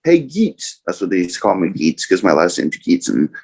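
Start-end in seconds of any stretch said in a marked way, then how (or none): 0.0-0.8 calling out. Retold or imitated. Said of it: "all of a sudden I hear".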